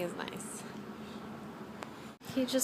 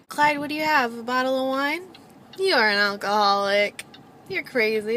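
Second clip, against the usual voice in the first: talking to the dog; 4 semitones higher, 5 dB louder than usual. Real, not acted. Scolding the dog playfully.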